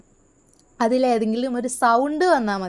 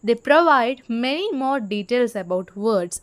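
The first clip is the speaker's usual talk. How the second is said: slow, deliberate reading aloud to students; slow textbook reading; much slower than usual. Shown as a demonstration. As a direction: read each word out slowly for the class. Reads English textbook line slowly. (പതുക്കെ പാഠപുസ്തകം വായിക്കുന്നു)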